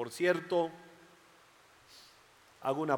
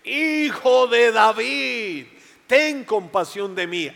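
much higher, loud, slow desperate cry; shouting louder; 6 semitones higher, 7 dB louder, slower than usual. Acted. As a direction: cry out with everything. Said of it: "gritó aún más fuerte".

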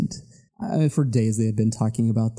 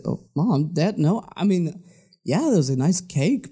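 put-on childlike protest; 5 semitones higher than usual.

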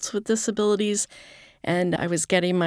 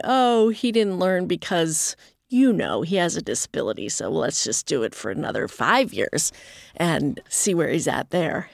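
sarcastic. Retold or imitated. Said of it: "I'm being sarcastic".

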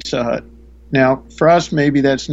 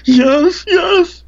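high, loud, crying yes; tearful yes; 5 dB louder than usual. Retold or imitated. The woman answering through tears, high and crying. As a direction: break into a high sob on each yes. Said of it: "the woman answering, crying".

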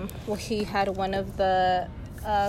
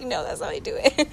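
higher, retold sweet reply; mildly put-on higher voice; 5 semitones higher than usual. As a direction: answer in a lightly sweetened voice. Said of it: "I kinda changed her little voice".

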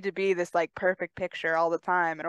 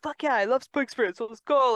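sarcastic; 6 semitones higher, 4 dB louder than usual. Shown as a demonstration. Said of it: "I'll almost say it in a sarcastic way".

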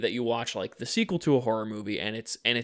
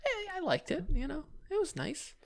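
mock sincere voice; 10 dB quieter than usual. Mock answer after teasing.

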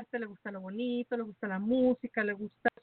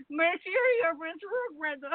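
slurred, slow, higher like tipsy; drunk-sounding; 6 semitones higher than usual. Pretend. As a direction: garble it as if drunk. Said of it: "Parece que estoy borracha".

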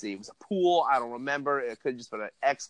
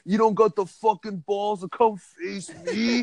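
put-on high, loud drunk taunts; drunk yelling; 7 semitones higher, 4 dB louder than usual. Drunk attacker taunting the fleeing speaker, loud yell. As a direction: yell it across the street to provoke. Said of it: "I hear him yelling in the background".

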